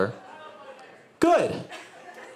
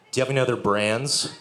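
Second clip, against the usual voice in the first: imitating homeless guy; 3 semitones lower than usual. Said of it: "and he says".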